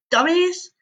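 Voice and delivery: high, bright exclaim of surprise; excited exclaim. A narrator's reading. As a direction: blurt it out amazed. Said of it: "Sid exclaims".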